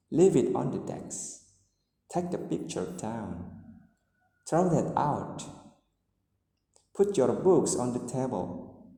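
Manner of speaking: commands that step down in pitch to "here", "down", "out"; falling intonation on commands. Shown as a demonstration. Teacher reading example commands to learners, falling intonation. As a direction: give each order a falling end. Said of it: "falling intonation comes to commands".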